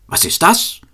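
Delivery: high indignant question; exclaiming. A narrator's reading. Cobbler coming upon the carpenters, calling out indignantly. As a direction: cry out, pitch jumping up sharply. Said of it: "rief er".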